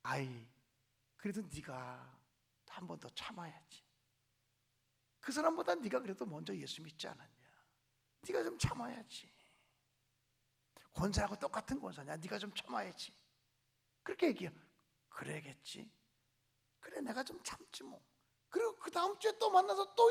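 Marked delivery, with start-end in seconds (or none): 0.0-13.1 lightly voiced kind deaconess advising patience; gentle counsel. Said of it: "신실한 믿음의 권사가 이렇게 얘기해요". 15.1-18.0 soft, lower half-whisper, giving in; whispered reluctant agreement; resigned whisper. Retold or imitated. Giving in to friend's advice.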